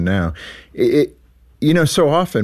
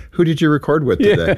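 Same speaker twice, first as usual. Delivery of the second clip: giggling; 5 semitones higher than usual. Real, not acted. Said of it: "I'm giggling".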